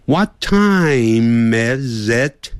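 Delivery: "What time is it?" very slow, "is it" linked smoothly, ending on a rise; slow linking demo. Shown as a demonstration. Teacher slowly modelling linked "is it" for students. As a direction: glide "is it" together slowly as one sound. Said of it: "Is it要连音连起来".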